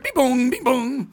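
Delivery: sing-song electronic beeps and booms; imitated dial-up modem beeps. Comic remembering old dial-up internet, imitated modem noises. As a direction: mimic the beep and boom of a dial-up modem.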